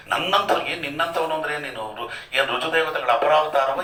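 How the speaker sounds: mock grieving complaint. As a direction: imitate a mourner's self-pitying cry. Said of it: "ಹಿಂಗೆಲ್ಲ ಮಾತಾಡ್ತಾರೆ ಜನ".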